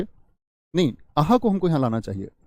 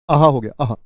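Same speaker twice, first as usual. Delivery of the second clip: joyful; 6 dB louder than usual. Shown as a demonstration. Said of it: "खुशी का भाव".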